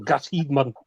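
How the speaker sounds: "Gateshead" said in broad Geordie; Geordie accent. Shown as a demonstration. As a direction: say "Gateshead" as a Geordie local would. Redoes hometown in broad Geordie.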